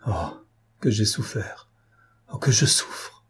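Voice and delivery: a grieving father breaks down; broken voice. Acted. Father sobbing to his old servant, choked and broken. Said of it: "s'écria d'une voix entrecoupée".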